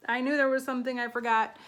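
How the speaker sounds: breathless and flustered; out of breath. Real, not acted. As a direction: talk while catching breath. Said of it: "I'm all out of breath and flustered".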